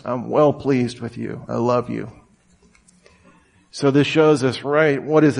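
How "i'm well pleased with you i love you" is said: tender. Acted. God's loving thought toward the listener.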